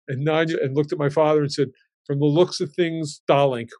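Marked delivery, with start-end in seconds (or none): 2.1-3.7 light Hungarian accent, barely put on; a hint of an old Hungarian grandmother's accent; Nanya's Hungarian accent. Grandmother Nanya needling the groom at the wedding, lightly Hungarian-accented. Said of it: "with the Hungarian accent".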